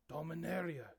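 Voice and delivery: big Minotaur call, pitch arched. Acted. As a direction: boom the name out like a huge beast. Minotaur points up, names word.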